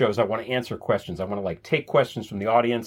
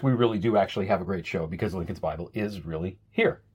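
ordinary talk, nothing marked

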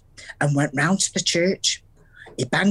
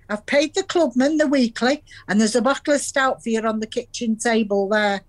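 smug; 5 semitones higher than usual. Retold or imitated. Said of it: "and said smugly".

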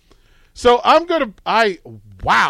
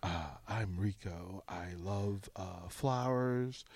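low, soft, slow mock-romantic voice; mock dating profile voice; 17 dB quieter than usual. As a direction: purr it like a cheesy dating profile. Mock Tinder profile of Rico.

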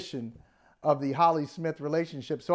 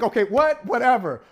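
dismissive shrug; 5 semitones higher, 6 dB louder than usual. Retold or imitated. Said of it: "I was like".

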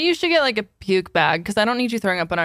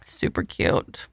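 whisper; 6 dB quieter, much slower than usual. Real, not acted. Whispered aside.

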